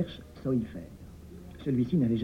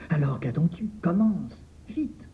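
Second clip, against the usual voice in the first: urgent command; 6 semitones higher than usual. Acted. Master urges the scribe.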